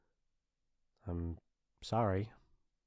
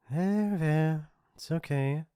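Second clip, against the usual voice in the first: higher, cooing consolation; mock soothing; 5 semitones higher, slower than usual. Bully consoling the victim they hurt, patronizingly soothing. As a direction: coo as if to a baby.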